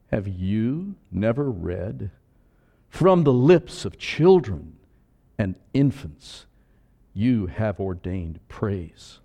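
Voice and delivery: Jesus replying calmly. Acted. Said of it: "replied Jesus".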